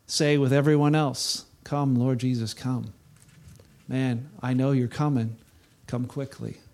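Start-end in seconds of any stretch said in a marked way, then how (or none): 1.6-6.6 soft, lower, fading plea; quiet prayer. Real, not acted. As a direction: pray it hushed and longing. Closing prayer with congregation.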